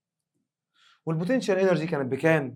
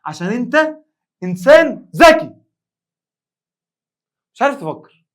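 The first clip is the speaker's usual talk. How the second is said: much louder and higher, fed-up yelling; mock angry shouting; 8 semitones higher, 18 dB louder than usual. Teacher explodes at a student who can't follow, loud mock rant. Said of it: "مستر اتعصبت ليه؟".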